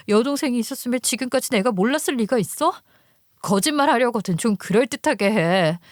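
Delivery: furious disbelief. Acted. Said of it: "그러다 당신 목 상하겠어".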